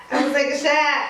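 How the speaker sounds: laughing through the words. Real, not acted. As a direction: giggle it out quickly. Laughing while announcing drink.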